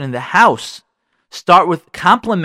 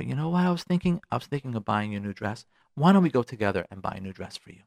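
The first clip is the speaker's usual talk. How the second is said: sweet coaxing; 4 semitones lower, 8 dB quieter than usual. Shown as a demonstration. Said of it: "Say to her".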